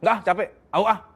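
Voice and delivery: impatient "Nggak, capek, au ah" tossed off; curt refusal. Shown as a demonstration. Wife rejecting husband bluntly: annoyed brush-off. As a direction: snap it off, done with him. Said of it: "laki-laki nggak bisa yang".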